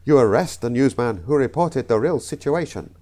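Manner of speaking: put-on botched accent drifting into South African; slight South African accent. Comedian fluffing a joke take, slight South African accent. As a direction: let a hint of South African creep in. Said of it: "A slight South African".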